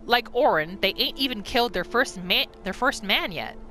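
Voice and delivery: lightly voiced bandit boss recounting the raid; bandit leader's note. Streamer reads the bandit leader's journal, lightly in character. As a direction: tell it like a scheming bandit chief, a little rough.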